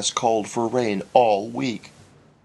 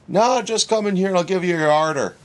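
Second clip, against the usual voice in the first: snapping; 6 semitones higher, 3 dB louder than usual. A narrator's reading. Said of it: "snapped Herbie".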